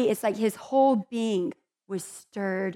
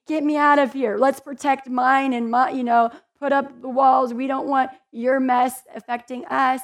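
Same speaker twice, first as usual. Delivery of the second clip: louder, higher mock panic to get out; mock selfish plea; 3 semitones higher, 5 dB louder than usual. Preacher mocking how we shut others out, mock panicky. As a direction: ham up the selfish urge to flee.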